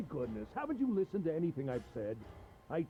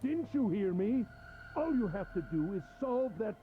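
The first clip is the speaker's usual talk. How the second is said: condescending; 4 semitones higher than usual. Acted. Captor condescends to captive.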